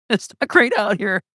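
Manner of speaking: a wry giggle pushed way up. Real, not acted. Comic telling a podcast host times are rough, laughing high.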